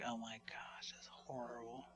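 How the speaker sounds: hushed, mortified whisper; embarrassed whisper. Retold or imitated. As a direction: whisper it as if caught red-handed. Ashamed on seeing churchgoer.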